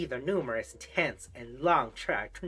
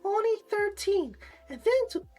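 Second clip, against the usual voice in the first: very high pinched flamboyant voice; nasal voice; 3 dB louder than usual. Pretend. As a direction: squeeze the words high through the nose. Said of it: "Maybe that's my nasal voice. Um, or flamboyant voice".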